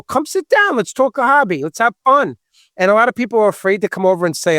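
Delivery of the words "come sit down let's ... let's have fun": higher-pitched, eager call to join in; upbeat invitation. Retold or imitated. Host tells people to come talk hobby, upbeat invitation. Inviting show visitors over.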